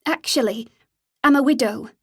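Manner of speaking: deliberately wavering claim; trembling voice. Acted. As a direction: fake a shaky, nervous voice. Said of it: "She made her voice tremble".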